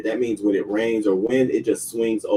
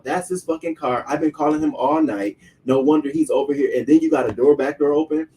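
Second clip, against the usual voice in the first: higher-pitched, heated accusing rant; retold confrontation, building louder to "Okay"; imitated yelling; 4 semitones higher, 4 dB louder than usual. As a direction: pile up accusations as the angry visitor. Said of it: "he started yelling my real name".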